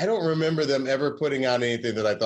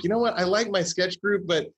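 mock frustration; 7 semitones higher than usual. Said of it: "I was like".

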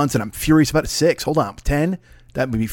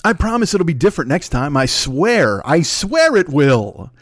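mock begging boyfriend, last swear drawn out slowly; hammed-up plea to take him back; pleading abusive boyfriend; 4 semitones higher, slower than usual. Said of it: "I'm your abusive podcast, uh, husband slash boyfriend".

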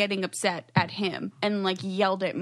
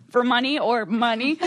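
laughing mimic; 2 semitones higher, 4 dB louder than usual. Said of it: "Ashley, just going".

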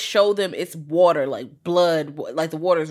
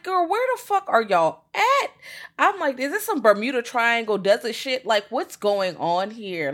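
much higher, mock disbelief; incredulous high voice; 6 semitones higher, 3 dB louder than usual. Imitating her reaction to the movie, high incredulous. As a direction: squeal it in playful outrage.

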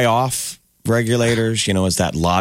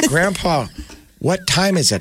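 put-on higher, sing-song child's question; kid asking again; 10 semitones higher, slower than usual. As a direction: ask sweetly to bait him. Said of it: "I go".

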